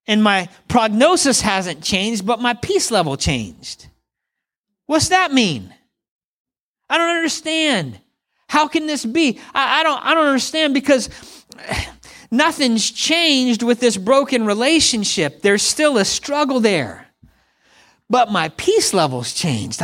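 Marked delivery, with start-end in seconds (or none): 4.8-15.4 lightly mimed bewilderment, pitch lifted high; baffled. Retold or imitated. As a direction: act out not understanding your own peace. Voicing a confused believer.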